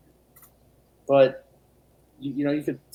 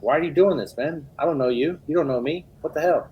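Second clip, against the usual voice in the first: acted exasperation; 3 semitones higher than usual. Acting out annoyance at unsolicited messagers.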